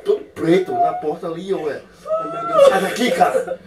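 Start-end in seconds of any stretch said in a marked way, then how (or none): 2.1-3.6 high squeal dissolving into laughter; startled giggle pushing someone away; laughing shriek. Real, not acted. Wife startled by prank, laughing.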